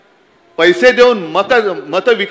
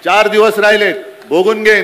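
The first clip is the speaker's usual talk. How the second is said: forceful warning; 3 dB louder than usual. Real, not acted. Repeats warning forcefully to opponent.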